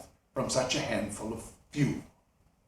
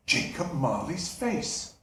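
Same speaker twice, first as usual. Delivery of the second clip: softer, slower muttered name; quiet slow mutter; 2 semitones lower, 5 dB quieter, slower than usual. Acted. Scrooge muttering to himself about the face on the knocker, quiet and slow.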